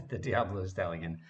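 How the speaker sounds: laughing correction. Real, not acted. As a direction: correct yourself with an embarrassed laugh.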